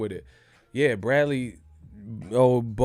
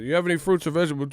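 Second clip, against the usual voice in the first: customs officer; 5 semitones higher, much faster than usual. Retold or imitated. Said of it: "That motherfucker".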